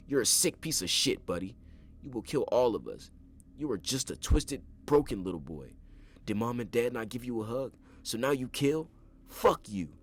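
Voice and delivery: high, loud enraged yelling; screaming in fury. A narrator's reading. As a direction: spit the insults at him. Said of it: "screaming at the door".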